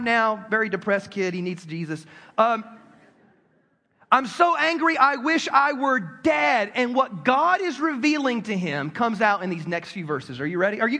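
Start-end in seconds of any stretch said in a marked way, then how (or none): 4.1-6.7 higher, louder, slow and dragged out; milk the sulky despair for laughs; hammed-up angry Jonah. Preacher replays Jonah's complaint as a hammed-up tantrum.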